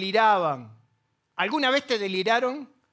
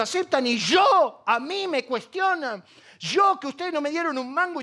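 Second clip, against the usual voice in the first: indignant outburst; 4 semitones higher than usual. Acted. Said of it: "Entonces él dice".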